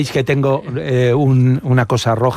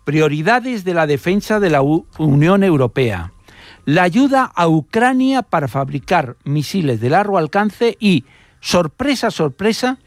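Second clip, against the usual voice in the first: measured narration with emphatic pauses before key words; scripted radio storytelling; 3 semitones higher than usual. Acted. Radio reporter recounting an Italian spy case to listeners, storytelling delivery.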